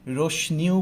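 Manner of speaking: রশ্মিও said "roshni-o", n for m; mispronounced with n. Shown as a demonstration. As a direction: put an n in রশ্মিও: "rosh-ni-o". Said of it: "অনেকেই ভুল উচ্চারণ করি". (রশ্মিও-কে ভুল করে "রোশনিও" উচ্চারণ)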